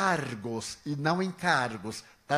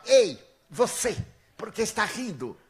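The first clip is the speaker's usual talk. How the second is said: imitated shout; 4 semitones higher, 4 dB louder than usual. Man yells at the laughing traveller, imitated shout. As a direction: yell it like an accuser across the queue. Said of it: "ele gritou de lá".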